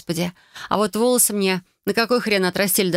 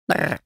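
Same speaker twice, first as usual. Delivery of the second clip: cat shudder; 2 semitones lower than usual. Acted. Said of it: "вздохнул кот".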